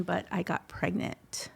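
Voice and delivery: whispered and slow, as if it is still hard to say; hushed confession. Real, not acted. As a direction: drop to a whisper to admit it. Confessing a hard life moment.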